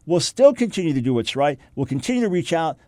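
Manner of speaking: ordinary talk, nothing marked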